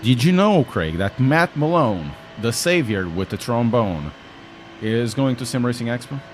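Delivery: bright sing-song teasing of Craig; playful greeting. Acted. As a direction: call out to a friend with mock excitement.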